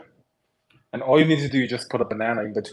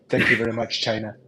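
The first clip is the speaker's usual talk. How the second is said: Trump impression; 2 semitones lower than usual. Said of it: "coolest Chinese impression of Donald J. Trump".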